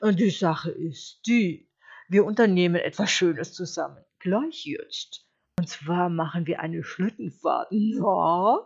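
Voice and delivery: lightly voiced persuasive wolf; smooth-talking wolf, coaxing. Wolf luring the sheep on a sleigh ride, coaxing.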